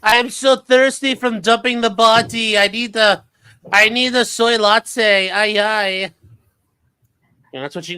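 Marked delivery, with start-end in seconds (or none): 0.0-6.1 put-on high, slow, whiny valley girl. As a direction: drag out the latte order like a bratty girl. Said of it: "Jennifer's like".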